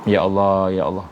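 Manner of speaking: a hint of happy relief; joyful relief. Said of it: "Dia punya gembiranya".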